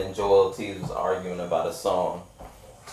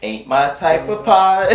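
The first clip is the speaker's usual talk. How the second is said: laughing slowly; 7 semitones higher, 4 dB louder, slower than usual. Pretend. Joking variant of catchphrase.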